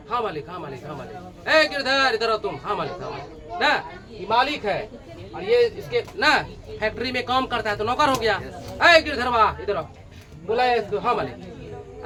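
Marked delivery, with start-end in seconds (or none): 0.1-0.8 lower, softer, submissive "yes master"; meek servant. Acted. Servant answers his master. 0.9-1.5 barely breathed "yes master"; whispered servile reply. Acted. Servant answers his master. 2.6-3.6 lower, softer, submissive "yes master"; meek servant. Acted. Servant answers his master. 11.0-12.0 slow, lower, soft "yes master"; bow your head as you answer; meek servant. Acted.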